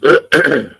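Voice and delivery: rough, rattling throat clear; harsh throat clearing. Real, not acted. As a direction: clear the throat like grinding brakes. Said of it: "you sound like truck brakes".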